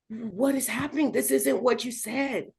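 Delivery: soft, shaken disbelief; stunned question. Retold or imitated. Patient to her doctor, soft stunned disbelief. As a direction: barely get the words out.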